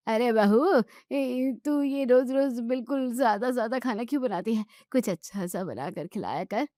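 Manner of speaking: lightly voiced old woman, teasing complaint; a touch of a fussy grandmother scolding; old neighbour teasing the bahu about her cooking; grumbling old woman.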